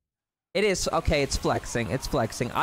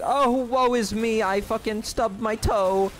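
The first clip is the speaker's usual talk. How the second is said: mock rich kid; 6 semitones higher than usual. Mocking himself as a spoiled rich kid, high and whiny. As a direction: ham up a pampered brat's complaint. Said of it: "I'm like that rich kid".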